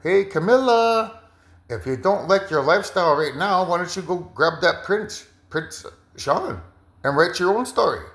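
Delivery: spirit voice. Retold or imitated. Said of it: "that's your spirit telling you".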